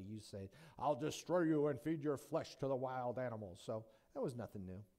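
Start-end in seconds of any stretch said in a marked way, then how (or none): 0.8-3.6 a lightly voiced threat; mock curse. Ancient warrior cursing an enemy, lightly voiced threat. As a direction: growl a curse to scare them. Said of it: "scare the snot out of somebody".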